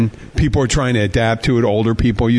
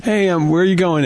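friend asking; 6 semitones higher than usual. Retold or imitated.

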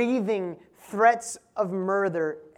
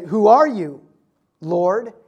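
startled cry; 8 dB louder, slower than usual. Acted. Preacher voices startled Saul.

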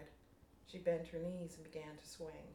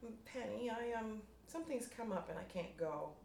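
hesitant; 6 semitones higher than usual. Acted. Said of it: "She hesitated".

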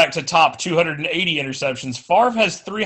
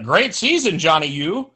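lightly done retro announcer voice; a hint of a vintage radio announcer; old-time newscaster. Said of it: "I do love the old-time newscaster voice".

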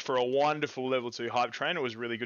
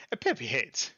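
quick jokey Italian accent. Shown as a demonstration. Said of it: "Try it in an Italian accent".

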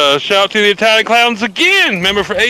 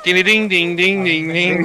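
imitated banjo; 2 semitones lower, 4 dB quieter, slower than usual. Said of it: "was the banjo sound".

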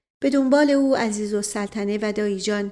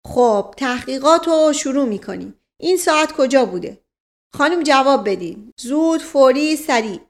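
higher, louder bossy copy of the chief; imitating Naib; 3 semitones higher, 5 dB louder than usual. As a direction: ape the chief's orders. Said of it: "قیافهٔ او را به خود گرفت". (ادای نایب با لحن آمرانه)

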